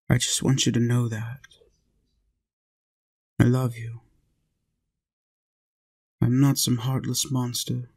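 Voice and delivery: ordinary talk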